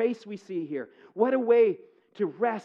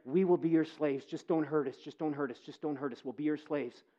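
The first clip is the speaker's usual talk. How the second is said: mock plea that fades softer as it repeats; imitating frightened brothers, softer each time; pleading brothers; 4 semitones lower, 4 dB quieter than usual. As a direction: beg for mercy, dying away to a hush. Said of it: "they then declare".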